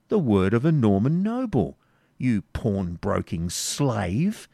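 slow, contemptuous insult; scornful Baron. Acted. Front de Boeuf sneering at Isaac. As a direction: draw out the insult.

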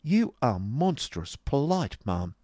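high, slow, pointed sarcasm; haughty sarcastic retort; sarcastic politeness. Acted. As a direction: stretch out the mock compliment. Acted quarrel, sarcastic compliment.

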